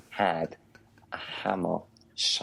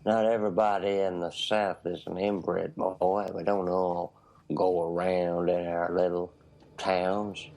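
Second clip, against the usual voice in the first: put-on Southern US accent. Mock Southerner defending the South, in a Southern accent. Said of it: "southern accent".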